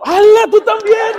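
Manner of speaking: high, loud, laughing outburst; laughing exclamation. Real, not acted. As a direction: burst out laughing at his wife. Wife joins his joke, he laughs. (exclamación riendo, alta y fuerte)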